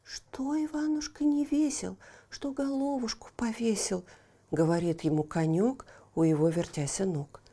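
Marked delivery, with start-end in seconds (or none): 0.0-4.0 tender little horse. Acted. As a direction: coax him gently, little humpback. Horse comforts Ivan. (нежный заботливый конёк)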